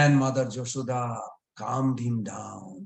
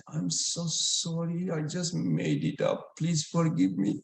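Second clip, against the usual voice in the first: pleading apology; 4 semitones higher than usual. Acted. Brother apologises, begging forgiveness.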